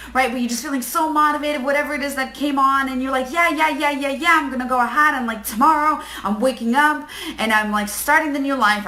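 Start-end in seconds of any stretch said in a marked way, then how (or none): 3.3-8.9 excited. Retold or imitated. Acted self hyping up.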